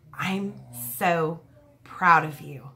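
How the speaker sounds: low, tender, with pauses between words; retold tender pride; heartfelt praise. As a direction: say it low and sincerely, word by word. Retold heartfelt praise after the climb.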